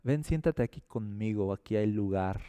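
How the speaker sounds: low, soft coaxing; welcoming invitation. Acted. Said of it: "si le dices al enojo".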